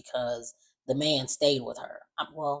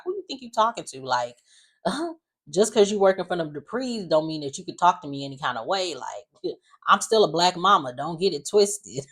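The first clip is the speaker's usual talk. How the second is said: sassy black mama; 3 semitones higher, 3 dB louder than usual. Retold or imitated. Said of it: "her mom was just like".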